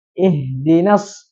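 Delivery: "Ihdinas" pendek tanpa mad, lambat; dibaca pendek. Shown as a demonstration. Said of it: "kan nggak kebaca panjang". (contoh bacaan pendek)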